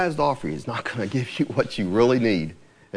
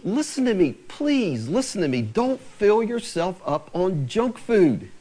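higher, slow pleading voice; 4 semitones higher than usual. Retold or imitated. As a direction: beg them gently to listen. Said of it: "It's like he's pleading".

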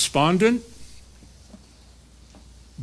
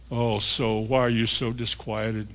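mocking; 9 semitones lower, 5 dB quieter than usual. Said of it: "That's not a compliment".

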